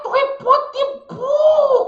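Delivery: ordinary talk, nothing marked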